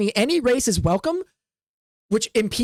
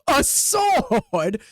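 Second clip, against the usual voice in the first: mocking laugh; 9 semitones higher than usual. Instructor mocking the sword.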